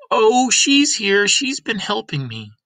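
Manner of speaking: put-on high, breathy old woman's voice; whispery old Granny. Granny telling Lena the baby has been helping, high whisper. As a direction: hush it like a secret.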